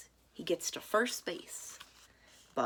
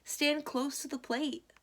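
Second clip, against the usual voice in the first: coach call; 9 semitones higher than usual. A narrator's reading. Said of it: "Coach Marie shouts".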